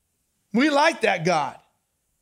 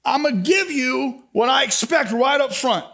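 mock scolding shout; 4 semitones higher, 3 dB louder than usual. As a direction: scold them like a fed-up father. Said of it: "And he says".

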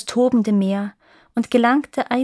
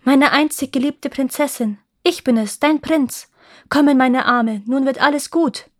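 raised, higher voice, urgent reassurance to a beloved; heartfelt exclamation, pitched up; calling out; 4 semitones higher, 5 dB louder than usual. A narrator's reading. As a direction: call out lovingly and urgently. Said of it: "rief der Prinz".

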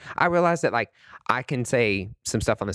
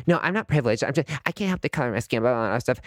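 lightly mock someone getting defensive; mock defensive denier; 2 semitones higher, faster than usual. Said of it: "and they're like".

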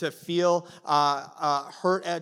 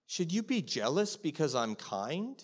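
soft voice of the master; 6 dB quieter than usual. Retold or imitated. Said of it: "he goes".

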